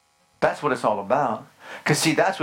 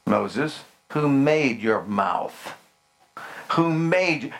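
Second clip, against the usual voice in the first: stern God; much slower than usual. Acted. God answering Moses.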